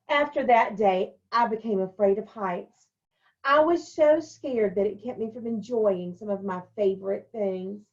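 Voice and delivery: put-on brighter storytelling voice for the children; story reading. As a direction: read it like a picture book to kids. Teacher reads picture book aloud.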